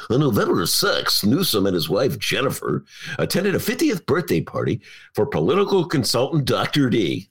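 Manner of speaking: smooth announcer read of the news copy; radio voice. Shown as a demonstration. Host retrying the CNN read in his radio voice. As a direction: read it clean like a radio newsman. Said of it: "Try it again".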